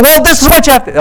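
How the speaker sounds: very high, very loud hammed-up insistence; imitated shout. Missionary imitating evangelist shouting in role play. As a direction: shout the instruction at them. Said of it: "they shout".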